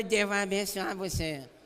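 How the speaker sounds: droopy, feeble, lifeless, low-energy delivery. Example of a blessing said to the person beside you, weak and low-energy. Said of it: "Essa bênção derrubada, fraca".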